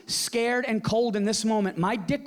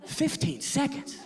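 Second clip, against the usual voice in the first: higher, slow disbelieving echo; stunned higher question; incredulous; 5 semitones higher, slower than usual. Real, not acted. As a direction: repeat it in disbelief.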